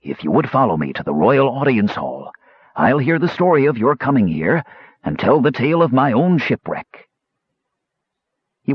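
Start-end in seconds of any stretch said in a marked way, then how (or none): 0.0-7.1 announcing. Acted. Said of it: "and announced".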